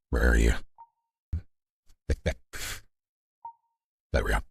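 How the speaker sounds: processed voice filter; voice changer. Real, not acted. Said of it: "I'm still in the voice".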